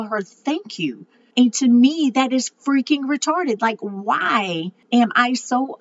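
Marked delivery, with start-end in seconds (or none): 0.2-1.1 choked-up thanks. Retold or imitated. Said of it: "I am choked up and I can hardly tell".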